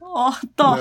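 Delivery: a teasing, gloating hand-over; mocking taunt. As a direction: rub it in. Mocks Desire handing the souvenir.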